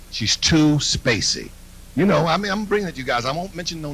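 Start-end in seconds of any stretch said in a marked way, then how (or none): 0.1-1.5 slow, dazed spacey drawl. Shown as a demonstration. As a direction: stretch out She's too spacey like a druggie.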